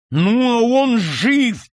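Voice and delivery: slow, high, loud shout. Acted. Count shouts at the grooms, slow loud shout. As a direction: drag it out in a furious shout. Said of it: "прокричал граф".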